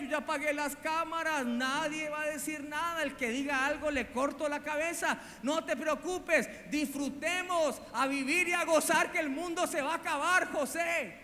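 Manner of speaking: voz más aguda de mujer tentadora, insistente; seductora. Retold or imitated. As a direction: tienta a José con voz aguda y mimosa. La esposa de Potifar seduce a José. (esposa de Potifar tentando a José, voz aguda e insistente)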